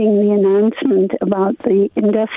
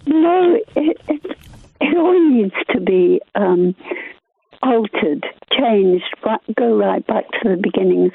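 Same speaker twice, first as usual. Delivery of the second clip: slightly throaty, needing to clear; speaking through a frog in the throat. Real, not acted. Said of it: "I'm getting a fog in my throat".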